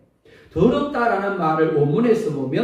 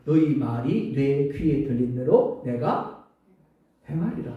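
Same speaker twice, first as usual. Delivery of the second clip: solemn voice of God; 4 semitones lower, slower than usual. Acted. God's word quoted solemnly.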